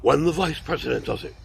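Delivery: lightly voiced Nixon vice-president; a hint of Richard Nixon; Nixon impression. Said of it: "my impression of former Vice President Richard Milhous Nixon".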